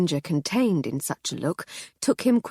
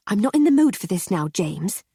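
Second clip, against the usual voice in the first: hissed; 2 semitones higher, 4 dB louder than usual. Acted. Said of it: "Missus Seddon hissed at him".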